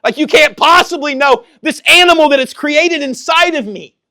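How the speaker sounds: high, loud protest hurled at God; impassioned, high-pitched reenacted yell; retold screaming. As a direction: re-enact crying out in protest at full voice. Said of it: "screaming and saying".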